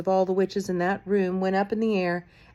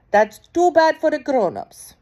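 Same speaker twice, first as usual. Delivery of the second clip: dismissive witch; 8 semitones higher, 8 dB louder than usual. A narrator's reading. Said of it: "said the Grand High Witch".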